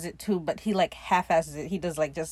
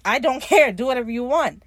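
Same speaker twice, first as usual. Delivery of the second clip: laughing dismissal; 5 semitones higher, 7 dB louder than usual. Retold or imitated. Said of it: "And Steve's like".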